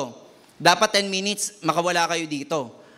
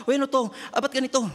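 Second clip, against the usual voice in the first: mock surprise; 7 semitones higher, faster than usual. Acts out phone user surprised.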